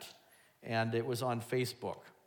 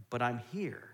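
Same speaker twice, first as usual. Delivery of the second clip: gentle reassurance; 2 semitones lower, 4 dB quieter than usual. Retold or imitated. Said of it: "And God is like".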